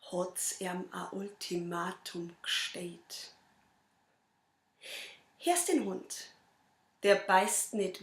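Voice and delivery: measured verse delivery with long pauses; poem recital. Acted. Reciting own poem to an audience, measured poem recital. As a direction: recite the rhymes line by line, lightly dramatised.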